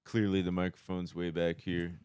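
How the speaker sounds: far-off quiet voice, off mic; mock DJ too far from the mic; distant mumble. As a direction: speak from well back from the mic. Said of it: "they'd be like".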